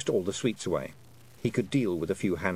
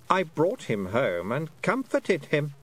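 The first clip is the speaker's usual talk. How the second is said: slow, higher-pitched queenly reassurance; calm Queen; 6 semitones higher, slower than usual. A narrator's reading. Queen explaining she comforted the boy, calm voice. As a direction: soothe as a serene queen. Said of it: "said the Queen calmly".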